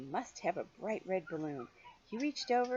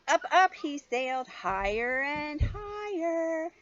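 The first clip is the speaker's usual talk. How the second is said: high, loud, slowing on higher and higher; soaring excitement; 8 semitones higher, 6 dB louder, slower than usual. A narrator's reading. Reading to a child, high soaring delight. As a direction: lift the voice as he floats up. Balloon flight in story.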